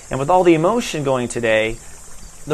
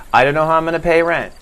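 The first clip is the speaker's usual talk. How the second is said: anxious inner worry; 3 semitones higher, 3 dB louder, faster than usual. Shown as a demonstration. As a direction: blurt the fear out fast. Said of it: "the whole conversation inside your head".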